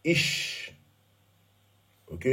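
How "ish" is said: Ish breathed out, whispered; whispered Hebrew word. Shown as a demonstration. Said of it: "j'ai même mis en rouge".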